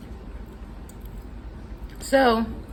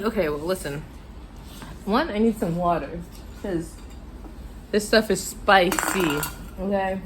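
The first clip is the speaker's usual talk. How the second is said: talking through the spice heat; spice burn. Real, not acted. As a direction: mouth on fire, needing water. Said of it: "And I'm like".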